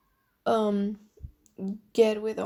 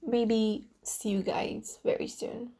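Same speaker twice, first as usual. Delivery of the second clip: whispering; slower than usual. Real, not acted. Soft sign-off whisper.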